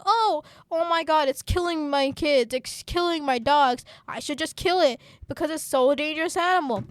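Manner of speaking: hammed-up complaint of outraged villagers; mock outcry. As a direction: imitate people making a big deal. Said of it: "make a big deal by saying".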